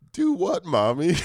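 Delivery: put-on high, sweet child voice; high innocent kid voice; innocent little girl. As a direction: play the angel daughter. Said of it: "And she's like".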